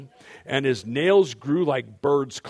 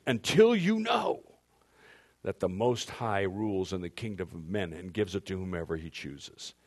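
heavenly voice; 3 semitones lower than usual. Shown as a demonstration. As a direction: announce it from the heavens. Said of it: "That's my heavenly voice".

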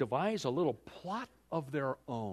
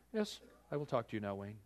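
quiet kingly permission; 3 semitones lower, 6 dB quieter, faster than usual. Retold or imitated. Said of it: "he would hold out his golden scepter and he would say".

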